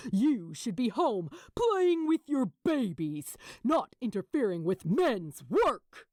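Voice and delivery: a hint of a sneer; lightly voiced sneer of contempt. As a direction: Gabriel sneering at Pepper. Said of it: "Pepper sneered back".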